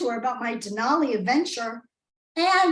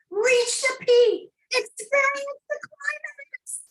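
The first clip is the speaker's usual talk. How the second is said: suggestive; 11 semitones higher, slower than usual. Pretend. Innuendo of summit goal.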